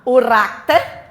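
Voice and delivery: "racter" slow, as separate "rac" and "ter"; split into syllables. Shown as a demonstration. Teacher dividing característica for the class, syllable by syllable. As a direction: break "racter" into two drawn-out syllables. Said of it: "porque a gente separa".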